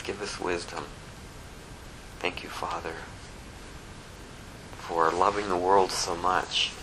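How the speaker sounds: soft, hushed, low-level prayer; quiet reverent prayer, voice dropping away. Real, not acted. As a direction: speak gently to God, nearly whispering the thanks. Leads a closing prayer.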